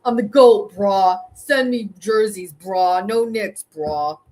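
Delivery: mock loud bro drawl; Jack's bro talk. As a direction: parrot his swaggering bro talk. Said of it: "Bro, why are you talking like that?".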